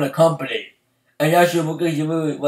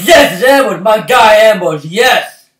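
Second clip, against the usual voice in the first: excited cheer; 2 semitones higher, 5 dB louder than usual. Retold or imitated. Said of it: "I'm like".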